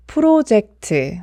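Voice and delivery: Korean-style 프로젝트 with a clear o sound; 프로젝트 said the Korean way, syllable by syllable; Konglish project. Shown as a demonstration. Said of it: "프로젝트라고 하면 틀린 발음이에요". (콩글리시 발음 프로젝트)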